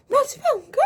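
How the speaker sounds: high, loud yell; piercingly high shouted refusal; retold drunken refusal. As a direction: shriek it like a drunk sister digging in. Drunk sister refusing before friends.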